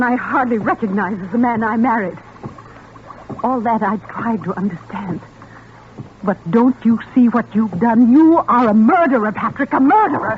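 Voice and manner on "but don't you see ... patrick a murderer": accusing. Acted. Wife accuses husband in a quarrel.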